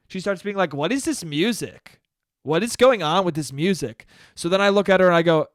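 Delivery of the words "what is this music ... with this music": retold complaining. Comedian imitating woman at bar griping about music, complaining. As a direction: imitate her griping, stretching the words. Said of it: "she starts complaining about the music".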